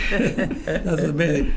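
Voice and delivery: amused, laughing through it; slow laughing reply. Real, not acted. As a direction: laugh while saying it. Laughs at casino joke.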